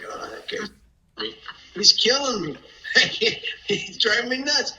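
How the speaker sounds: loud, high mock complaint; retold exasperation. Griping to the wife about that guy, exasperated.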